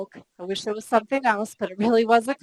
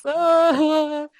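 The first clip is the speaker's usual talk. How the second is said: mock wail; 6 semitones higher, 5 dB louder than usual. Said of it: "I'm bawling crocodile tears".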